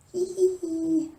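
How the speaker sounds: high cackling witch laugh; witch giggle. Retold or imitated. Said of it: "that just sounded like a witch".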